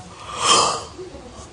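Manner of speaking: voiceless breathy lion noise; imitated lioness. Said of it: "and she would go".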